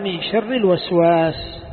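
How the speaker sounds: reads "من شر الوسواس" slowly and carefully; slow quoted reading. Shown as a demonstration. Teacher reading the verse to students, slow and deliberate. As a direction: lays out "من شر الوسواس" word by word, slowly. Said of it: "قال".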